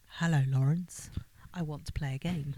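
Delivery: lightly put-on creepy recorded message; a half-hearted go at the villain's voice; attempted tape voice. Co-host without a voice changer attempts the tape, mildly creepy. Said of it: "It tends to say something like".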